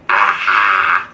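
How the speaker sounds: drawn-out "ah" of horror; mock mental scream. Teller watching her date with old man, mock horror scream. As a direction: act out a held-in scream. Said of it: "mentally screaming".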